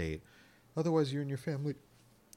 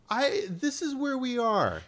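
high, loud trailer narrator parody; movie trailer voice; 7 dB louder than usual. Retold or imitated. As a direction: boom it like a blockbuster trailer. Quoting dramatic trailer voice.

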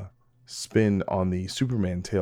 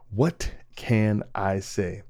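What can I say? stretched out slowly, each word lingered on; slow, mock-humble shrug of a line; slow drawn-out; much slower than usual. Shown as a demonstration. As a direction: let it hang, slow and knowing.

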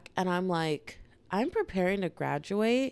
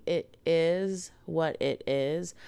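slow, deliberate restatement in usual pitch; genuine; much slower than usual. Real, not acted. Podcaster insisting to listeners she means it, genuine. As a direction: spell it out slowly and sincerely. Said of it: "Like, genuinely".

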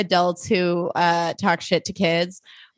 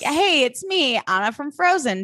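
mock impostor greeting; 6 semitones higher than usual. Imagining impostor celebrity messages.

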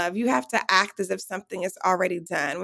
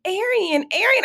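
high excited calling of a name; 12 semitones higher than usual. Retold or imitated. Someone at the red carpet calling Arian, high excited call. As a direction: call her name across the carpet, rising higher. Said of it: "started screaming".

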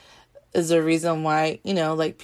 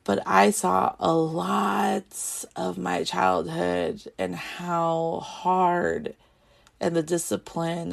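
fighting tears; slower than usual. Real, not acted. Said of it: "Oof, I don't wanna cry during this".

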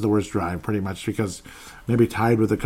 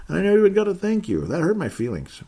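mock hurt; 10 semitones higher than usual. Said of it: "No, I'm just kidding".

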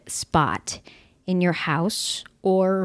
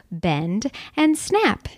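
Legally Blonde quote; much slower than usual. Retold or imitated. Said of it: "Legally Blonde in there from ya".

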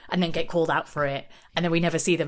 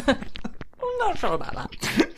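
dull doubtful voice; 5 semitones higher, slower than usual. Retold or imitated. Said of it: "being like".

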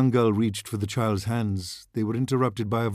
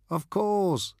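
laughing; 10 semitones higher than usual. A narrator's reading. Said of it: "laughed the fortune teller".

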